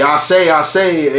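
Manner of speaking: lightly imitated Southern drawl, slow repeated phrase; a hint of stereotypical Southern rooster; Foghorn Leghorn. Showing how the cartoon rooster talks, light Southern accent. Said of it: "the stereotypical Southern".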